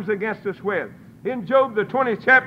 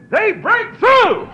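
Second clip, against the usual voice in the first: slow, high preaching shout; shouted climax; 11 semitones higher, 4 dB louder, much slower than usual. Real, not acted. Preacher shouting to the congregation, high and slow. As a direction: cry it out to the congregation.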